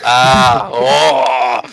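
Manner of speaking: loud delighted cry; excited shout. Real, not acted. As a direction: cry out in glee. Excited reaction to the dad voice.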